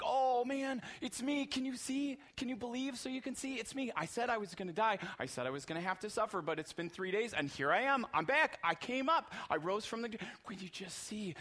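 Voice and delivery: eager, beaming reveal; Jesus excitedly revealing himself to the disciples. Retold or imitated. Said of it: "He's like".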